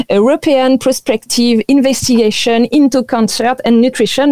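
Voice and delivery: English title read with a strong French accent; English words in a French accent. Real, not acted. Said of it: "excusez-moi pour mon superbe accent anglais". (anglais avec un fort accent français)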